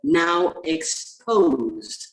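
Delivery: measured poetry reading with deliberate pauses between phrases; poem recital. Acted. Poet reading a poem about the virus to colleagues, measured recital. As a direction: recite it line by line, letting key words stand alone.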